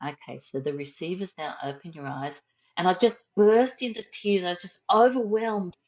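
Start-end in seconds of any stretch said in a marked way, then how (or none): 0.1-2.4 softly, as if heard from far away; a soft instructor voice drifting in from a distance; faint distant voice. Retold or imitated. Facilitator gently calling the group back, faint and soft. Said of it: "very faint in the background".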